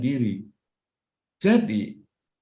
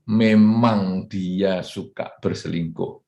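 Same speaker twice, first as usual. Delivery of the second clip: calm acceptance; 5 semitones lower, slower than usual. Shown as a demonstration. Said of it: "Bukan kata "kenapa", tapi kata "memang".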